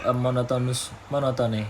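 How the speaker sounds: flat monotone, rushed and dropped low; mock monotone, low and quick. Shown as a demonstration. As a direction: drone it on a single note.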